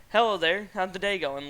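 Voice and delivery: lightly stiff, overly polite phrasing; mock sophisticated scammer. Mocking how the scammer texted his brother's friend, faintly posh. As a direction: play it prim and proper, just a hint. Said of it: "like, sophisticated".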